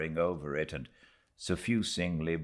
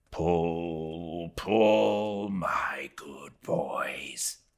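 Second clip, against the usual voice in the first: intense whisper; 2 semitones lower, 4 dB quieter, much slower than usual. Acted. Starbuck urging his rowers on, concentrated whisper. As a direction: drive the men on under your breath. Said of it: "in the lowest possible but intensest concentrated whisper".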